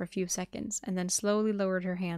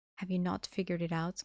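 plain

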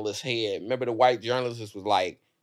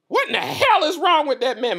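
very high, loud, exclaiming grandma voice; 6 dB louder than usual. Retelling a grandmother's reaction to a music video: imitating my grandmother. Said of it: "After Pray and being like".

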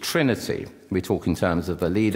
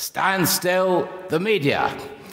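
very high, full-voice parade-ground army shout; 10 semitones higher than usual. Quoting a British Army man addressing the press: retelling a top-of-voice shout. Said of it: "said at the top of his voice".

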